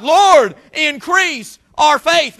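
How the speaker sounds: loud, drawn-out preached plea; crying out. Retold or imitated. Disciples crying out to God for faith, retold cry. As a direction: call out to God from the pulpit, slowly. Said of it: "they're crying out to God".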